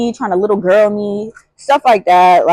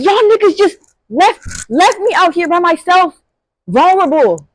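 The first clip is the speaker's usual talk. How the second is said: abandoned panic; 8 semitones higher than usual. Retold or imitated. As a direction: wail it as if left alone and blind. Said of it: "I'm like".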